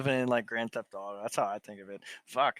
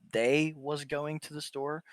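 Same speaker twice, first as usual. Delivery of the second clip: mock questioning; 3 semitones higher, 3 dB louder, slower than usual. Shown as a demonstration. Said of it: "pick another sentence".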